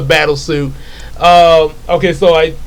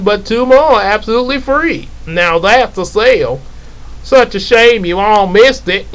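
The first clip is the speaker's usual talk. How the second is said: gloating pitch; 5 semitones higher than usual. Acted. Villain gloating sales pitch.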